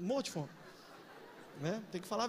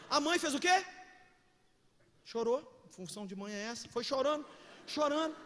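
ordinary talk, nothing marked

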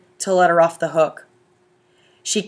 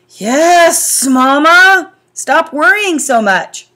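teasing dad; 8 semitones higher, 8 dB louder, much slower than usual. A narrator's reading.

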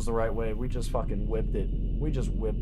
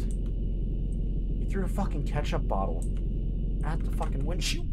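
higher, drawn-out outraged complaint; pissed off; 5 semitones higher, slower than usual. Acted. Garbage man griping about the ketchup bottle on the windshield, pissed off. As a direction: gripe in rising, exasperated outrage. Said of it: "I'm pissed".

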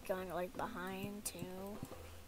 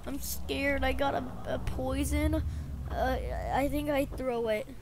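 put-on softer, hesitant little-boy stammer; scared little boy; 6 dB quieter than usual. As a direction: stammer timidly as a frightened boy.

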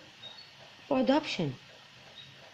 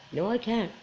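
"No, I can't." repeated softer, sinking to itself; 8 dB quieter than usual. Real, not acted. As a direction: let "No, I can't." fade out as a resigned echo. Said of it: "Can I say that in public?".

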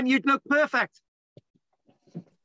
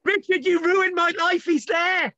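higher-pitched exasperated wail; 5 semitones higher, slower than usual. Real, not acted. Lecturer berating Richard over the link, exasperated. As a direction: wail the complaint at him.

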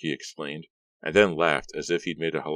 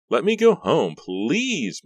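high, loud desperate plea; beg, close to panic; begging; 11 semitones higher, 5 dB louder, much slower than usual. A narrator's reading. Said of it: "Maya begged".

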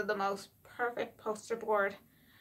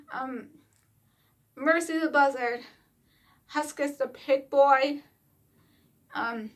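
excited retort; 3 semitones higher than usual. Retold or imitated. Replying to dad, excitedly explaining the puppets. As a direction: set the record straight with eager excitement. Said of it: "I was like".

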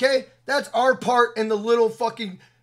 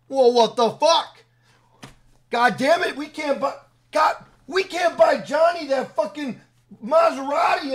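higher, louder, slowed-down mock shouting; mock outraged Rockstar; 4 semitones higher, 3 dB louder than usual. A vlogger mocking Rockstar executives who panic over lost sales, in a hammed-up shout. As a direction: ham up a panicking executive who can't afford a Maserati. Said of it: "They're like".

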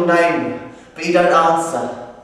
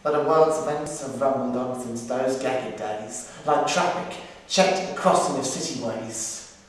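poem recital. Acted. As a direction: read it like a memorial poem, measured. Recites war poem, then monologue.

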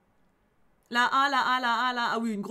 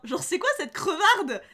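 laughing scorn; 4 semitones higher, 4 dB louder, slower than usual. Real, not acted. Mocking the rude character.

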